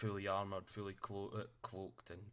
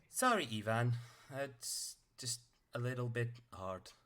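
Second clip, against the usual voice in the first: slightly raised, measured robot voice; little robot; 3 semitones higher, 5 dB louder than usual. Acted. Toddling robot apologises after pushing prisoner.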